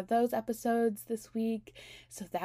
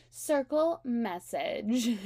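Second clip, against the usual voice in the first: announcer voice; 3 semitones higher, 3 dB louder, much slower than usual. Retold or imitated. Quoting the show's catchphrase.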